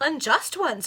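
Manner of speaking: loud, startled echo; mild mock outrage; indignant exclamation. A narrator's reading. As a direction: throw her words back, stunned. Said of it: "exclaimed Richard".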